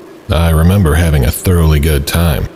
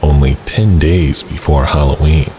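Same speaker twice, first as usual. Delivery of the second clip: horror host. Acted. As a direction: welcome the ghouls like a creepy TV host. Horror host intro, then story narration.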